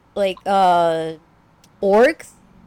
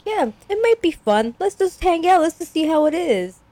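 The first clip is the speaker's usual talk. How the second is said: imitated father agreeing; 9 semitones higher than usual. Voicing easygoing father agreeing.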